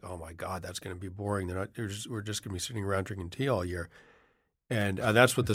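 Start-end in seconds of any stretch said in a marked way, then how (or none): 0.0-3.9 soft, bored, groaning quote; groaning complaint. Retold or imitated. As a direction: groan it out, deflated. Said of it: "I sort of groaned like".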